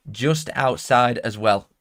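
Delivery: slowed right down, word by word; slow deliberate repeat. Real, not acted. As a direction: draw out each word deliberately.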